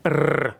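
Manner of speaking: "r" as a rolled Russian trill. Shown as a demonstration. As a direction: roll the "r" on the tongue tip. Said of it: "trilled Russian".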